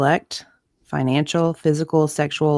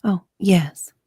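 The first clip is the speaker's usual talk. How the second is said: whisper; 3 semitones higher than usual. Real, not acted. Co-host whispering a knowing agreement. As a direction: breathe the yes out as a hush. Whispered reply while reading messages.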